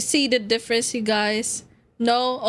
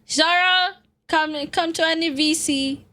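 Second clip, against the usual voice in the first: calling out; 5 semitones higher than usual. Real, not acted. Calling a friend into voice chat.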